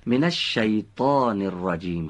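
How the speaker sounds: «من الشیطان الرجیم» with a clear Arabic «ش» and «ج»; correct Arabic pronunciation. Shown as a demonstration. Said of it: "آفرین".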